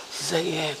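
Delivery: barely audible croaked-out address; very soft, as if the voice is nearly gone; imitating own failing voice. Patient addressing the doctor with almost no voice, very faint. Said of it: "이렇게 냈어".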